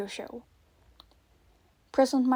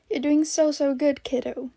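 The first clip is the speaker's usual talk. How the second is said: encouraging; 4 semitones higher, 6 dB louder than usual. A narrator's reading. Host encouraging frightened child on call.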